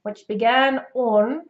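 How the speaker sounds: slow British phrase with rounded "on"; British imitation, closed jaw on "on"; British accent. Shown as a demonstration. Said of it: "he says on for on".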